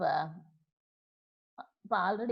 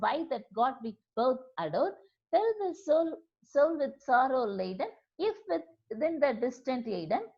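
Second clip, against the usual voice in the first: soft, measured reading of verse; quiet solemn poem reading; poem recitation; 3 dB quieter than usual. Acted. Teacher recites the poem aloud.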